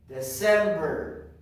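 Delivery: loud and stretched out; drawn-out, emphatic model word; teacher's drill call. Shown as a demonstration. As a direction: call it out slowly for the class. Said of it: "I am going to say".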